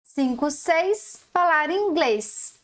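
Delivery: slow "Cinco, seis, falar inglês", rhyme stressed; slow recitation. Shown as a demonstration. Teacher reciting the rhyme slowly for children. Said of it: "está fazendo rimar".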